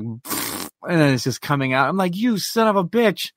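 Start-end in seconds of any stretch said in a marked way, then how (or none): 0.0-0.7 soft blown raspberry; quiet puffed-lip splutter; imitated dog noise. Owner mimics his dog pooping, imitated splutter. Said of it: "Now it's like". 2.1-3.3 higher-pitched mock outrage; exasperated retold curse. Owner to the pooping dog, retold exasperated curse.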